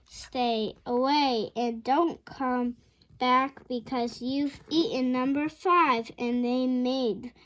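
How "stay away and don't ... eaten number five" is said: slow, louder careful reread. Shown as a demonstration. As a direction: read it again slowly and clearly.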